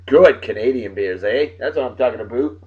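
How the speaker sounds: playful Canadian "eh" and "aboot"; mock Canadian accent. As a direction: put on a jokey Canadian accent.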